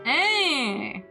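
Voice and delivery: sharp loud call of hey; loud shout. Acted. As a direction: bark it out as he barges in. Delinquent barges in shouting.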